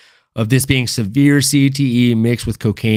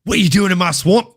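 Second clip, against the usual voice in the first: Shrek; 4 semitones higher than usual. Acted. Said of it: "I've watched Shrek".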